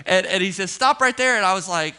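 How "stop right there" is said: loud, raised-pitch halt command; shouted order. Retold or imitated. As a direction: imitate a guard yelling to stop someone. Retold security guard's repeated order.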